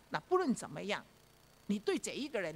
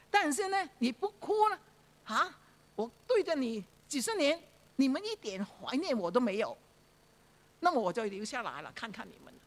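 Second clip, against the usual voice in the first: aggrieved dead. Retold or imitated. Voicing the dead person's complaint.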